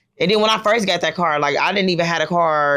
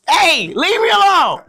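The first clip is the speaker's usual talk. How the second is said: high, slow mock plea to be left alone; drawn-out high-pitched playful protest; mock exasperation; 12 semitones higher, 5 dB louder, slower than usual. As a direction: whine it up high like you're begging, half joking. Exasperated by daughter's teasing.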